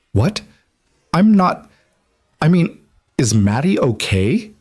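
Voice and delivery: high, panicked rush; alarmed. Acted. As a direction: blurt it out in panic. Alarmed about the child.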